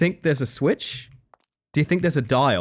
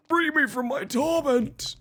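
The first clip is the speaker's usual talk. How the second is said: high, slow, hammed-up cry of torment; mock anguished plea; slower than usual. Streamer begging the awful game to let them win, high and slow mock-tragic wail.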